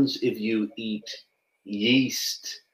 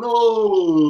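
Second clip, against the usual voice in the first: yawn; 6 semitones higher than usual. Shown as a demonstration. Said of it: "I have a big yawn like this".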